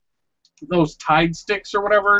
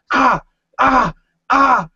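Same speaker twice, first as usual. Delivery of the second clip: imitated yelps; 5 semitones higher, 3 dB louder, slower than usual. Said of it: "you hear".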